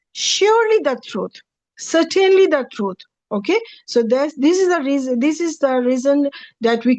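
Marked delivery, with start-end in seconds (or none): 0.1-3.0 surely and certainly lifted high; emphatic reading. Shown as a demonstration. Teacher demonstrates the double emphasis in translation. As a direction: push up surely the truth. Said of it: "we will create two emphasis in it".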